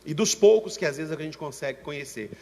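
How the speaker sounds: a touch of a tearful church member telling her woes; complaining church sister. Retold or imitated. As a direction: plead like a wronged sister pouring out her story. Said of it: "ela falou assim".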